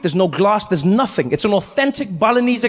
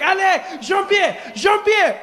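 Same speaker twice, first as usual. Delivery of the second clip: put-on high panicked French accent shout; french chef; 10 semitones higher, slower than usual. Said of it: "He's like".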